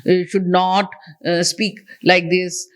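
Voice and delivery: fumbling demo with repeats and fillers; mumbling and fumbling. Shown as a demonstration. Trainer showing students what to avoid, fumbling delivery. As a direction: stumble over the words, uh after uh. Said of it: "mumbling and fumbling".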